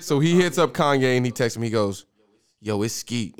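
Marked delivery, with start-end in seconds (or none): 2.6-3.3 low-key, slightly softened character voice; Skeet. Acted. Reading Skeet's text to the rapper, lightly imitated. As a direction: lightly imitate a guy announcing himself by text. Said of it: "I gotta hear your Skeet voice".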